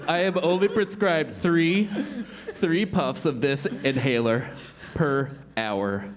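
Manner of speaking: halting, out-of-breath explanation; lightly hammed-up wheezy kid; asthmatic awkward student. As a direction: pause for air between phrases.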